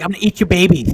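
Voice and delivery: loud, lightly gruff boxer boast; Mike Tyson voice. Retold or imitated. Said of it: "impression there".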